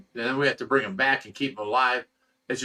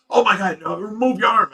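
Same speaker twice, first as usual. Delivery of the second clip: high, loud retold warning; alarmed warning; 7 semitones higher, 5 dB louder than usual. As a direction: act out an urgent warning to get clear. Acting out aquarium worker's alarmed warning.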